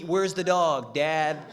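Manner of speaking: put-on loud, fixated drunken demand. Drunk son demanding the dog from dad, loud. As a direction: keep hammering the same accusing question loudly. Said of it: "when you're drunk".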